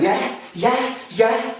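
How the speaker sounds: high, repeated challenge barks; psyching himself up. Acted. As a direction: mimic a thug winding himself up. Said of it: "building themselves up going".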